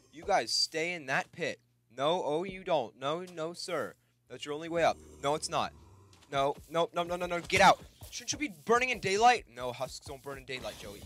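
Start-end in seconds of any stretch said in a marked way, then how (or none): 0.1-9.4 loud, raised-pitch orders to keep back; alarmed scolding. Real, not acted. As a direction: shout at monsters to stay away. Fends off monsters from a pit.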